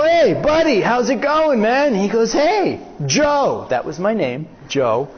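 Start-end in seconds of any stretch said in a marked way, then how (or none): 0.0-1.9 higher-pitched casual greeting to a buddy; friendly hail. Retold or imitated. Man hails his high-school best friend at a traffic light, friendly hail. 2.3-3.7 higher-pitched call to a pal; friendly hail. Retold or imitated. Old friend greets him back at the light, friendly hail.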